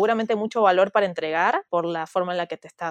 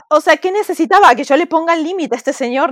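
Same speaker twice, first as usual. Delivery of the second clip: excited emphasis; 7 semitones higher, 8 dB louder than usual. Real, not acted.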